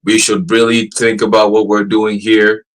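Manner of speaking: slow, measured, formal machine delivery; stiff robot voice. Retold or imitated. Imitating the AI's first stiff answer, slow and formal. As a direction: read it like a careful assistant bot. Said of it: "it went from".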